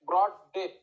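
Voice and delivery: ব্রড and ডেথ struck like hammer blows; stress on both words. Shown as a demonstration. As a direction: hit ব্রড, then hit ডেথ. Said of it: "দুটাই হাতুড়ি মেরে দিল".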